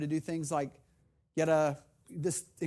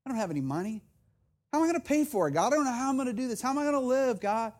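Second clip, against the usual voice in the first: retold bellyaching to God; 3 semitones higher than usual. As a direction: complain to God, voice rising in frustration. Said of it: "really belly aching to God".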